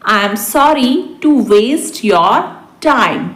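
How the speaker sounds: deliberate, for learners; spaced-out repeat. Shown as a demonstration. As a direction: pause before the last word. Teacher repeats translation word by word. (रुक-रुककर)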